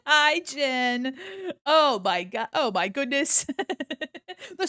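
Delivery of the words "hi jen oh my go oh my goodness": loud, high surprised squeal; real delight at a raid, laughing; excited shock. Real, not acted. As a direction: gasp and laugh at the raiders.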